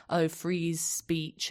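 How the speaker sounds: mock the phrase, dragging it out; slow, lightly sneering imitation. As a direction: draw the words out to take the piss. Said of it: "They take the piss and say".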